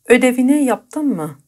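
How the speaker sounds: slow, careful Turkish model sentence; slow example. Shown as a demonstration. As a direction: read it out slowly for learners. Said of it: "یه مثال دیگه". (آهسته و شمرده)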